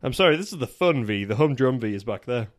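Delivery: put-on firm, loud South African accent. Player redoes the film quote in a South African accent. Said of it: "It was South African".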